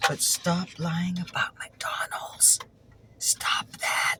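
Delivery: slow, emphatic telling-off in a strained voice; mock scolding. Collector tells food creators off for fibbing, mock-exasperated. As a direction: scold them hard, leaning on every word.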